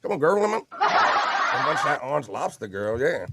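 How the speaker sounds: playful excited chat voice; excited chat read. Retold or imitated. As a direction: read it like a hyped friend. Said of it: "Peter Scott Parker says".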